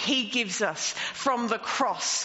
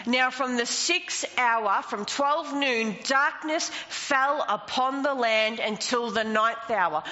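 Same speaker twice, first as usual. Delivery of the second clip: scripture reading. Acted. Reads scripture verse aloud.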